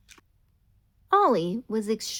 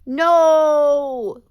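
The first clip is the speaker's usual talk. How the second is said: laughing; 6 semitones higher, 14 dB louder than usual. Acted. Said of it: "laughed Ollie".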